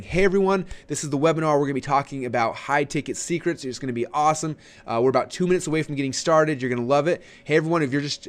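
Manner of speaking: upbeat webinar welcome, pitch lifted; high-energy, exciting. Shown as a demonstration. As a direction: greet the crowd with excitement. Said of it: "lot of energy and being exciting".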